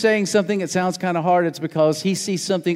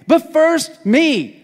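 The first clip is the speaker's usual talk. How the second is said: mock selfish whine; 10 semitones higher, 4 dB louder, much slower than usual. Voicing selfish excuse.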